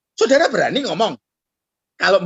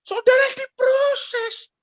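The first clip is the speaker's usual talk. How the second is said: slow punchline; much slower than usual. Real, not acted. Punchline, drawn out.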